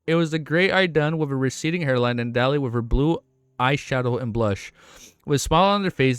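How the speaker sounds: steady, projected read-aloud voice; audiobook-style reading; story narration. A narrator's reading. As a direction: narrate the novel clearly and evenly. Reads the novel aloud.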